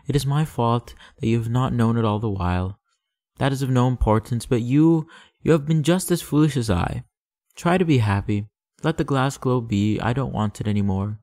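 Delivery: a proud flower letting him go; lightly voiced proud flower. Flower's farewell speech.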